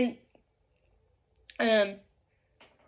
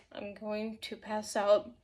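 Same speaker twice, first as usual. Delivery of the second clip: soft, low, about to pass out; mock-faint murmur; 5 semitones lower, 10 dB quieter than usual. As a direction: retell it weakly, under your breath. Retelling herself faint and sweating.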